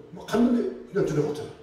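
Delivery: normal talking voice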